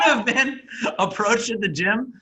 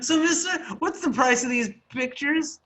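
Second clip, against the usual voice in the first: mock naive voice; 4 semitones higher than usual. Friend mocks him again.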